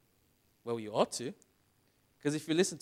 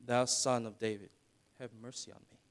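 softer and lower, "Thou Son of David" read tamely off the page; flat mumbled reading; 4 semitones lower, 7 dB quieter than usual. Shown as a demonstration. Preacher mocking how the church reads the verse, flat and quiet. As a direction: recite it limp, like a dull church reading. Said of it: "the way that we read things".

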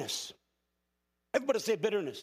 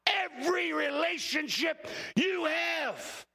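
preaching at full force; 3 semitones higher than usual. Acted. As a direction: drive the warning home to the congregation. Preacher builds to full-force exhortation.

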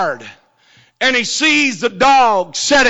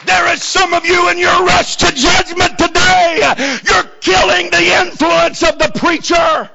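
high, shouted sermon climax; impassioned revival shout; full-force preaching; 8 semitones higher than usual. Real, not acted. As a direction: cry it out to the whole church, stretching the key words.

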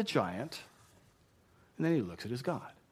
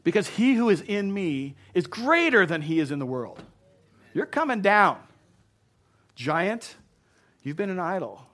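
loud, raised-pitch proclamation; worked-up preaching; 5 semitones higher, 7 dB louder than usual. Real, not acted. Preacher declares victory over the giant, worked-up shout. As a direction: proclaim victory with full-force conviction. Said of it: "I'm getting worked up up here".

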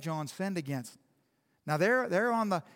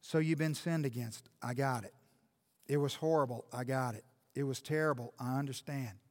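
much softer and lower, gentle and earnest; quiet pastoral tone; 5 semitones lower, 7 dB quieter than usual. Acted. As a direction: speak softly to the hurting listener.

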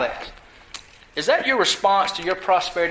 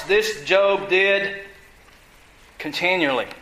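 drawn-out lead-in, pause, then continually set apart low; stress on continually; 3 semitones lower, slower than usual. Real, not acted. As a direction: hold back, then let "continually" land low on its own. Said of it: "I put emphasis on the last word".

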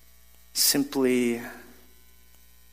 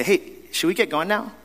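hinting question; 5 semitones higher than usual. Retold or imitated. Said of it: "I'll say".

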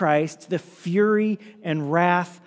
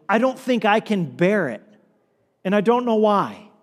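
pleading prayer; 2 semitones higher than usual. Acted. Sufferer in pain questions God, pleading. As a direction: act out a sufferer appealing to God.

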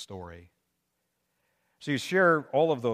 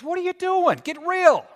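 much higher and louder, yelling at the crowd; fiery call-out; 11 dB louder than usual. Retold or imitated. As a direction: call them out like an angry prophet. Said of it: "calls people out".

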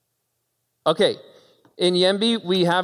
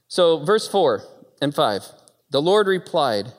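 ordinary talk

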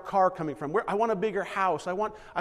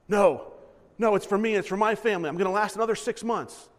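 louder, defensive no to the neighbour; selfish refusal; 2 semitones higher, 5 dB louder than usual. Acted. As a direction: snap back, guarding your stash. Hoarder refusing hungry neighbour.

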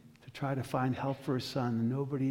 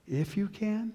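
questioning echo; 5 semitones higher than usual. Acted. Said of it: "Jesus does something strange".

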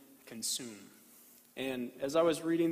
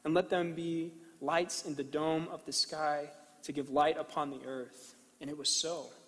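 scripture reading. Acted. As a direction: read it with reverent pauses. Reads Genesis slowly to congregation.

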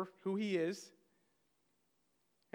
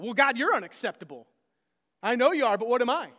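mock bratty comeback, louder; a hammed-up childish Cain; childish tantrum; 7 dB louder than usual. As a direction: whine it back like a sulking child. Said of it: "Cain's response is absolutely childish".

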